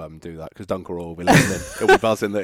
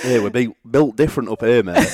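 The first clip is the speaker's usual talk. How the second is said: louder, higher, hammed-up Yorkshire accent; terrible Yorkshire accent; 3 semitones higher, 7 dB louder than usual. Host teasing fellow Yorkshire guest, mock Yorkshire accent. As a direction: put on a bad Yorkshire accent for a joke. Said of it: "My terrible York-, Yorkshire accent".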